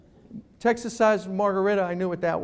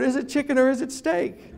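mock puzzled; 5 semitones higher than usual. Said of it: "I wrote".

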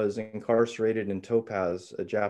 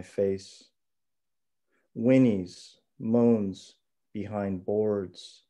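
hushed raw poetry; slower than usual. Acted. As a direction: read it slow and intimate, with pauses. Reads second poem aloud.

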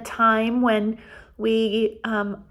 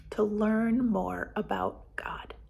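whisper; 7 dB quieter than usual. Acted. Teacher whispers the lesson's point to children, hushed. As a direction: drop to a slower hush. Soft ending of Bible lesson.

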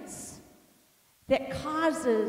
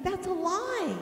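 high-pitched mock indignation; indignant retort; 7 semitones higher than usual. Wife inwardly answering her husband's charge, indignant. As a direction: act out a silent protest. Retold angry thought at husband.

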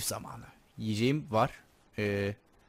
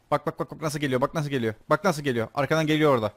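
raised, urgent repetition; higher-pitched, insistent game panic; agitated alarm; 4 semitones higher, 4 dB louder than usual. Real, not acted. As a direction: call out the approaching threat in alarm. Watching enemy creep up behind.

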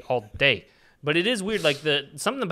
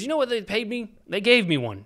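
high-pitched incredulous character quote; imitated grumble, pitched up; complaining actor; 8 semitones higher than usual. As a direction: play an aggrieved voice actor. Acting the butler actor's complaint.

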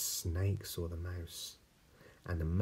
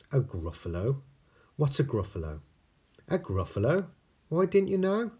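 high surprised voices; 8 semitones higher, 7 dB louder, faster than usual. Acted. Mouse and owl exchange.

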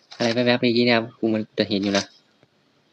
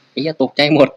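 sudden loud jolt of fright; startled curse; 4 semitones higher, 7 dB louder than usual. Real, not acted. Gamer jumps at a sudden enemy, startled loud curse. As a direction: blurt it out, caught off guard.

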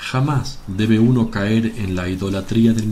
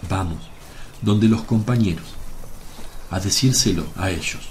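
gentle, slightly softened and lower delivery; greater sweetness. Acted. Jesus decides to bless the persecuted helpers, gentle sweetness. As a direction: speak tenderly, in unhurried phrases. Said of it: "Jesús sonríe con mayor dulzura aún y dice".

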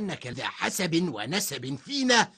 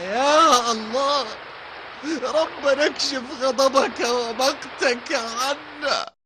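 crying voice. Acted. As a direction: wail to God in tears. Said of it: "وقال آخر بصوت باكي".

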